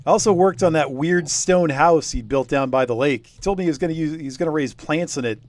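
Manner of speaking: a hint of a chatty old villager spinning a yarn; old local villager. Game master voicing old villager telling the investigators, lightly voiced.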